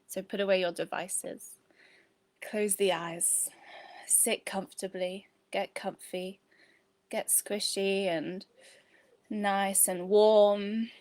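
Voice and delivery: calm, measured meditation guide with long pauses; guided meditation. Real, not acted. Teacher settling women in to breathe before a body scan, calm meditation voice. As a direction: guide them gently into breath and body, phrase by phrase.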